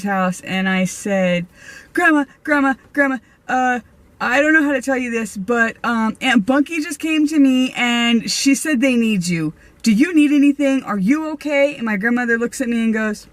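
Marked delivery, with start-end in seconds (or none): 1.9-11.8 higher, fast and breathless, blurting it all out; urgent and worried, pitched up and rushing; frantic excitement. Retold or imitated. Telling grandma about the ghost, urgent and excited.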